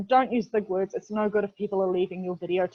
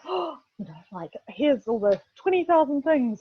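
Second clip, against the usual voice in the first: overdone stiff formal pitch, much higher; mock formal; 5 semitones higher than usual. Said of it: "be all formal and go".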